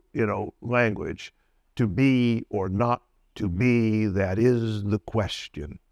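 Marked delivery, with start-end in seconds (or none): 1.8-5.8 slow recital with beats on BE, NOT and IS; measured stresses. Shown as a demonstration. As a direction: slowly lean on each stressed word of "To be or not to be". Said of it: "And so we hear stresses".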